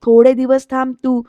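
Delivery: firm but held back; first, restrained take; irritated. Retold or imitated. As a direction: tell her to wait, restrained annoyance. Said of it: "सुधाकरची चिडचिड होतीये".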